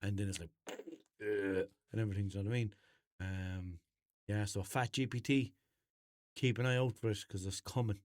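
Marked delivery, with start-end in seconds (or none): 1.2-1.7 short imitated burp noise; mock burp. Shown as a demonstration. App demonstrating its computer voice, mock burp. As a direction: fake a burp from the throat. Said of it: "eating while it's giving you the answer and burping".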